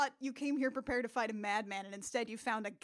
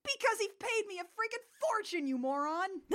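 mock DJ; 9 semitones higher than usual. Quoting DJ's reply.

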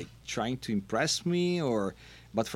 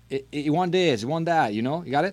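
bartender coaching; 6 semitones higher, 7 dB louder than usual. Retold or imitated. Bartender coaching him at the bar.

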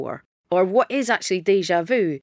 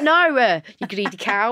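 mock indignant; 2 semitones higher, 4 dB louder, slower than usual. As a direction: scold her jokingly. Retelling telling off greedy girl.

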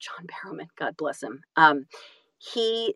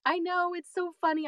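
laughing agreement; 11 semitones higher, slower than usual. Real, not acted. Laughing at host's remark.

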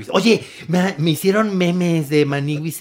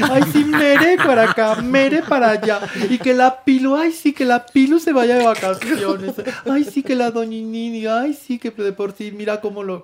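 put-on higher, whiny baby talk, dragged out; 4 semitones higher than usual. Complaining the others get all the affection, in a higher whiny baby voice. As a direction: pout like a jealous child. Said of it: "empieza a hablar como bebé".

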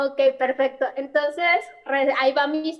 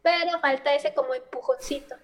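echoey, like a tiled bathroom. Real, not acted. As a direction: caller in a work bathroom, echoing. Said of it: "Si se escucha mucho eco es porque estoy en el baño".

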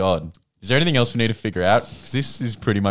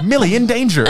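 parrot voice; 12 semitones higher, 3 dB louder than usual. Pretend. Parrot voice acted.

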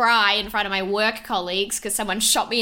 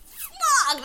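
squeaked-out swear, much higher; high, pained mock squeal; high mock groan. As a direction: let the swear crack up high. Retold pain.

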